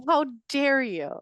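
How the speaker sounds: slowly stretched, playful affront; mock indignation. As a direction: draw out the offended question. Mock outrage, repeated for emphasis.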